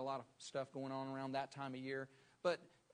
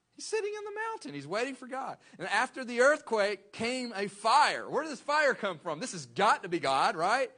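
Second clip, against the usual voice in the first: much higher and much louder, building to a shout; fired-up preacher shouting about the fire; preaching climax; 9 semitones higher, 13 dB louder than usual. Real, not acted. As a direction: preach it at full force.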